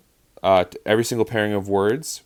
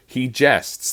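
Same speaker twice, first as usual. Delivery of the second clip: "jests" stressed over "He"; "He" light, "jests" the important word; stress on second beat; 4 semitones higher than usual. Shown as a demonstration. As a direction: lean on "jests", pitched higher. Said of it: "putting emphasis on the second beat".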